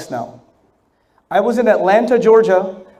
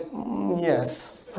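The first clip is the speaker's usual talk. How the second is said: laughing yes; 4 semitones lower, 13 dB quieter than usual. Retold or imitated. Resigned agreement, laughing.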